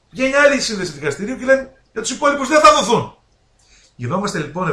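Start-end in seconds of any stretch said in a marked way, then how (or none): 0.1-3.2 higher, with a laugh of disbelief; amused disbelief at the court rulings. Real, not acted. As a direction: laugh at the absurd contradiction.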